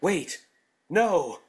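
panicked shout of protest; loud protest. A narrator's reading. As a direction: cut in loudly, alarmed. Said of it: "I jumped in".

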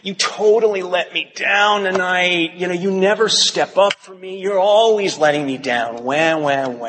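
high, complaining whine; whiny voice. Retold or imitated. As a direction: whine it out like a sulky victim. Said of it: "I put on my whiny voice".

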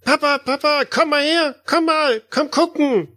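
put-on high child calling out; yelling across the room. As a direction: call Papa over excitedly, high. GM voices child calling father.

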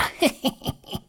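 low-volume voiceless cackle; witch's cackle. A narrator's reading. Witch gloats after ordering Gretel about, cackling. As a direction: snicker as a wicked old witch.

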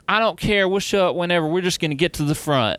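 high, mocking entitled crowd voice; lightly mocking pushy concertgoer. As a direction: mimic pushy fans who don't care. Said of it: "you ever meet these people like".

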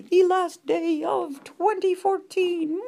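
high, slow mad scientist intoning; spooky Halloween voice. Pretend. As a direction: announce it like a creepy villain. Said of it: "a Halloween-y effect".

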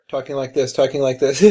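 very soft, low mimicry; imitating quiet talker. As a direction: tease someone by dropping your volume right down. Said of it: "You're talking like this".

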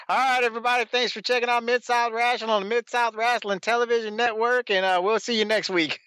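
breezy mock sign-off announcer; Boyd Pierce impression. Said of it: "Boyd Pierce saying".

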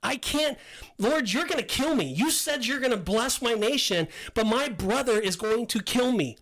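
acted plea of disbelief; protesting to God. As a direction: argue back as if wrestling with God. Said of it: "wrestled with God where I was like".

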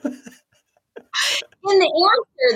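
laughing through the words, drawn out slowly. Real, not acted. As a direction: let the laugh stretch the phrase. Laughing while repeating her answer.

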